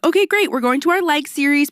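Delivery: high, peppy instructor voice, easing down; retold perky announcement to a class; upbeat class cue.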